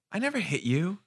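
high, laughing impression of mom; mock mom denial. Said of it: "My mom will be like".

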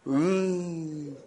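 long drawn-out "mm" at the devil; dismissive noise at devil. Shown as a demonstration. Preacher showing her how to treat the devil, dismissive hum. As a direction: demonstrate a drawn-out mocking hum. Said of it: "do the devil like this".

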